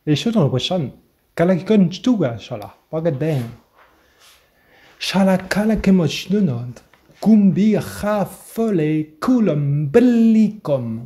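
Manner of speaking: invented German-sounding babble, ending slow and strange; fake German gibberish. Host imitates the incomprehensible German he heard as gibberish. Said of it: "comme si j'inventais une langue".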